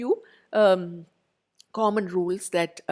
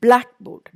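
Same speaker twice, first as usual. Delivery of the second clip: "Blackboard" with a high, loud BLACK; BLACK-board, falling after the first half of "Blackboard"; stress on first part; 5 semitones higher, 10 dB louder than usual. Shown as a demonstration. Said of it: "first part".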